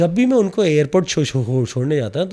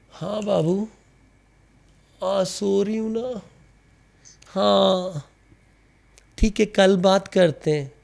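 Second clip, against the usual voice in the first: sleepy, sugary reassurance; sweet girlfriend voice; 4 semitones higher, slower than usual. Retold or imitated. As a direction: coo innocently to the boyfriend. Girlfriend sweet-talking boyfriend on phone.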